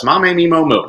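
"Ma, me, mi, mo, mu" as pure Spanish syllables; Spanish vowel drill. Shown as a demonstration. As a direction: recite Ma, me, mi, mo, mu as an even syllable drill. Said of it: "Nice and consistent".

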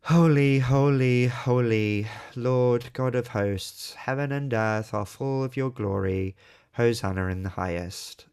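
flat, slow Holy holy holy read by rote; dull recitation. Shown as a demonstration. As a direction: drone Holy like a bored congregation. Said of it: "how do we read it most of the time".

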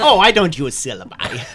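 high, loud character voice with laughter around it; theatrical drama teacher. Acted. Peggy answers in character.

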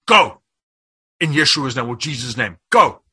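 loud commanding "Go", firm between; commanding rebuke. Retold or imitated. Rebuking an evil presence in his bedroom, loud commanding order. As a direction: cast it out with force.

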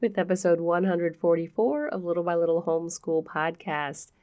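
stuffy-nosed, nasal speech; nasally voice. Real, not acted. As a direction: talk through a blocked nose. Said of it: "my nasally voice".

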